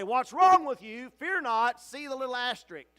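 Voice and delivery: angel's loud rebuke. Acted. Angel to the weeping believer, loud rebuke. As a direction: jolt them out of self-pity.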